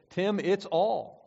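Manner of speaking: slow, drawn "Tim, it's all" in a lightly voiced mother; a hint of a matter-of-fact mother, slowed; mother's "it's all". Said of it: "she said".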